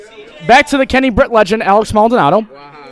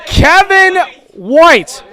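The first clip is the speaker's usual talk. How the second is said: stretched announcement; 6 semitones higher, much slower than usual. Real, not acted. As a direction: drag the name out like a stadium call. Host repeats pick in disbelief.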